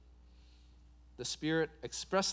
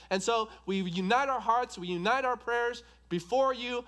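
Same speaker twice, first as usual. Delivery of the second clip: higher, earnest praying voice; fervent model prayer; 6 semitones higher, 4 dB louder than usual. Acted. Preacher showing the congregation how to pray to God, fervent. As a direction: build the petition in insistent, parallel phrases.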